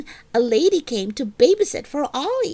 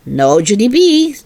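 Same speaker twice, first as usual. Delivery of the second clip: stern mother; 6 dB louder than usual. Acted. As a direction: put your foot down like a strict mom. Mother figure refuses.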